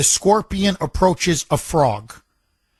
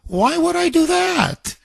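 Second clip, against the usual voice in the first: high pleading scorpion, much higher than his own voice; 7 semitones higher than usual. Retold or imitated. Radio host voicing the scorpion to the frog, high and pleading. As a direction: play the scorpion, high and coaxing. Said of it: "The scorpion turns around and says".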